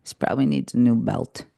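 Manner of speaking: unbothered, matter-of-fact quote; mildly put-on nonchalance; calm imitation. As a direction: shrug it off calmly, as an imitation. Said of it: "you said so calmly".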